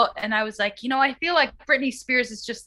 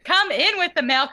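a touch of Southern twang, raised; Southern accent; 6 semitones higher than usual. Pretend. Quoting the post in a mock Southern accent. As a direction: toss off the line with a light Southern lilt. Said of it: "read it as a Southerner".

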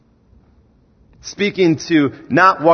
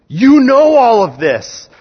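louder and higher, pressing home; raised preaching voice; 8 semitones higher, 5 dB louder than usual. Real, not acted. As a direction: drive it at the congregation.

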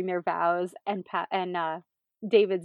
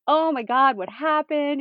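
mock panicked Patrick; 7 semitones higher, 5 dB louder than usual.

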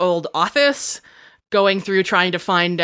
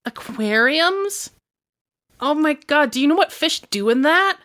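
disgusted; 8 semitones higher than usual. Acted. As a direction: recoil in disgust. Sierra disgusted by fish idea.

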